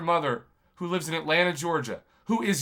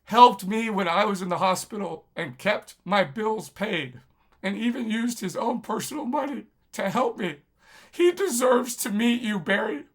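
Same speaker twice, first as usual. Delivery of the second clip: getting emotional; 3 semitones higher than usual. Real, not acted. Thanking his brother and pleading to Barry, emotional. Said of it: "I'm gonna get emotional".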